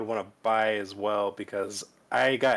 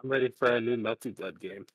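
robotic mic-distorted voice. Real, not acted. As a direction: sound like a glitchy robot mic. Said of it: "you sound like a robot".

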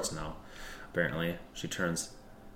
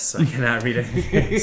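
character voice; 3 semitones higher, 11 dB louder than usual. Acted. Character voice, loud.

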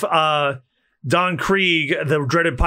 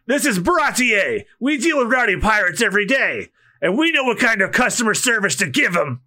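rallying shout; 6 semitones higher than usual. Acted. Head chef rallying the cooks against Don Krieg, shouting. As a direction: rouse the crew to fight.

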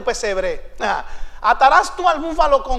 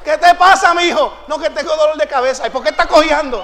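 mock fussing wife; 3 semitones higher, 6 dB louder than usual. Acting out fussing wife and husband.

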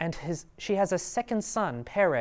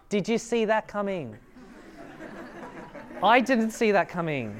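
high, loud excited play-by-play; sportscaster voice; 4 semitones higher, 4 dB louder than usual. Acted. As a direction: call it like a stunned sports announcer. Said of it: "I'm gonna try to do my best sportscaster voice".

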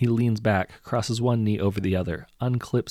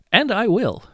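sneering villain; 13 semitones higher, 9 dB louder than usual. A narrator's reading. Hero's sneering retort.

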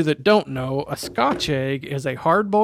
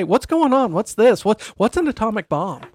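higher, baffled questions of a confused wife; 5 semitones higher than usual. Retold or imitated. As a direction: play the puzzled wife asking what's happening. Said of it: "without having to say".

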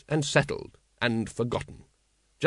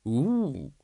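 ape hoot. Acted. Librarian ape answers Vimes.

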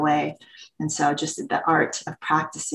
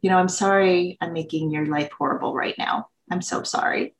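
mildly passive-aggressive apology, re-enacted. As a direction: imitate a pointed, over-sorry apology. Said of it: "I was super passive aggressive".

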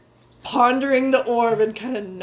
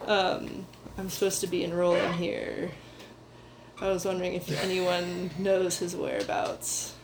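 a lightly voiced polite young man, less gruff; softer and more refined than his usual gruff talk, only a touch; lighter refined voice; 5 dB quieter than usual. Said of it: "not as kind of gruff as he normally talks, a little lighter, a little bit more refined".

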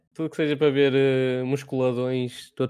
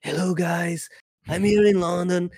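mock husky English voice; 4 semitones higher, slower than usual. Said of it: "imagine o Nunes com aquela voz".

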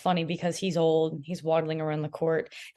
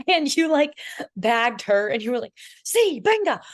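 laughing disbelief; 6 semitones higher, 6 dB louder than usual. Retold or imitated. Retelling James bagging Leia.

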